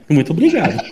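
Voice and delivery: thanks through a laugh. Real, not acted. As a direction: laugh while saying thanks. Laughs after being blamed.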